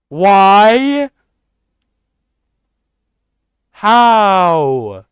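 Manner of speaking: loud, high, stunned shout of disbelief; shocked yell. Real, not acted. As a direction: blurt out in real shock. Streamer shocked at viewer's ban.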